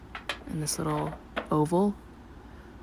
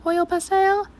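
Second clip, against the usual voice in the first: surprised question; 4 dB louder than usual. Real, not acted. Questioning her own word.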